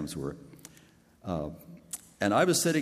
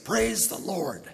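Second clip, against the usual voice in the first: a much higher, slow joyous shout; joyful shout; 11 semitones higher, slower than usual. Retold or imitated. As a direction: shout it out in sudden joy. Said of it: "I shouted at the top of my voice".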